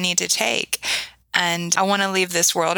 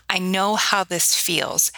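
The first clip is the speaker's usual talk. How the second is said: gentle reassurance; slower than usual. Retold or imitated. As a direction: say it slowly, holding a grieving child. Comforting her grieving child.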